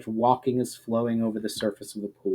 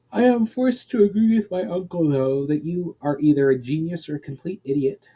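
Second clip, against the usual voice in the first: a hint of raised, wry voice; Myra's blunt verdict; 5 semitones higher than usual. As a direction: tell him frankly, half teasing. Myra voicing blunt judgement.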